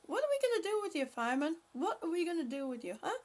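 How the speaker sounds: teasing a viewer while laughter settles; laughing. Real, not acted. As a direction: still giggling as she teases. Still laughing at Fireman.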